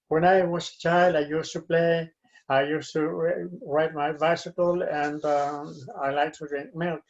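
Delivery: monotone, meaningless reading aloud; robotic, no inflection. Shown as a demonstration. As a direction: read it like a robot on one level note. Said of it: "without any inflection, no meaning at all".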